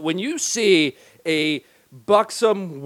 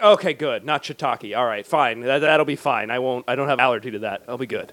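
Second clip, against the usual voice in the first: acted relief; 3 semitones lower than usual. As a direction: settle down from mock panic, dropping lower. Acts out relief after panic.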